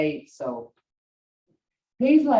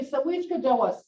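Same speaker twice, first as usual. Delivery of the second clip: questioning tone; 5 semitones higher than usual. Shown as a demonstration. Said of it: "Hear that, uh, tone in my voice?".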